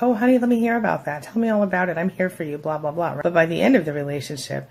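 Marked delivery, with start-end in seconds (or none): 0.0-3.2 fake caring partner. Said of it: "they were like".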